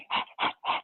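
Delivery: short airy laugh, winded; breathless laugh. Real, not acted. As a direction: laugh out of breath after the burst. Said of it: "I'm laughing because".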